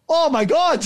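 high, excited rush of disbelief; starstruck gasp. Retold or imitated. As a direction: squeal it like meeting your idol. Bumping into a famous singer.

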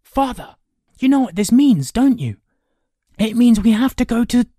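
put-on high, loud boyish rush of enthusiasm; excited. A narrator's reading. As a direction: burst out with the news to a parent. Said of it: "Kay spun excitedly towards Ector".

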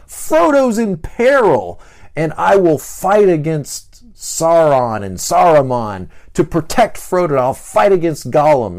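high, loud, slow battle pledge; heroic vow. Acted. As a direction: swear to protect your friends. Six as heroic defender.

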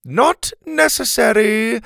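high, slow, deliberate character voice; dismissive interjection. Acted. Helga marches over to the fallen teacher, dismissive. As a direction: wave the panic away, stretching each word.

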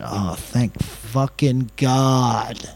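long, drawn-out exhale of relief; retold slow, heartfelt relief; relieved. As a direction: stretch each word in mock-huge relief. Retold relief after being reassured.

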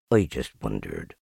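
very low, downcast donkey; Eeyore, resigned. A narrator's reading. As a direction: let it drop low, resigned.

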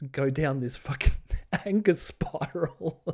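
slow, self-mocking chuckle through the words; laughing at himself. Real, not acted. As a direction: laugh off the rant. Laughing at his own grumpiness.

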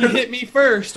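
high, loud, overdramatic title; mock clickbait drama. Reading out a driver's vlog thumbnails, mock drama. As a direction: exclaim it like an overexcited vlogger.

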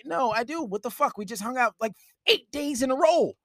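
mock flustered boyfriend. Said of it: "boyfriend protests".

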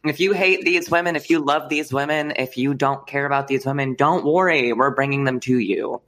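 put-on Southern pitchman; mock Southern promo; Southern accent. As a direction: reassure in a hammy Southern twang. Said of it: "Southern accents".

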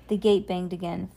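put-on calm storybook reading for a child; story narration. A narrator's reading. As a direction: read it like a bedtime story.

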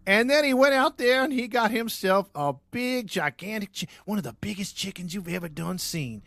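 mock country storyteller; hammed-up farm father. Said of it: "And he's all".

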